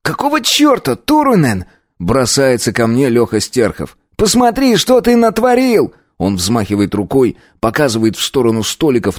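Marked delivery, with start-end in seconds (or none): 0.0-1.6 alarmed friend, much higher; Lyokha. A narrator's reading. Friend confronting him after the fight, much higher voice. 4.2-5.9 alarmed friend, much higher; Lyokha. A narrator's reading. Friend confronting him after the fight, much higher voice.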